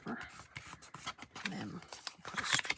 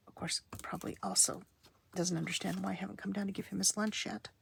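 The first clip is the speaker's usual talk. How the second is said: whispering. Real, not acted.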